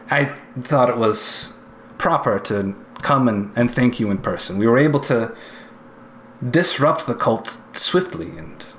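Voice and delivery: measured, deliberate thanks with pauses; lightly voiced officer giving stiff praise; formal stern inquisitor.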